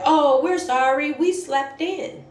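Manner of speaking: high, slow, drawn-out fake apology; sing-song mock sorry; mocking the parents. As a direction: mimic their excuse in a stretched high voice. Mimics the parents' late excuse.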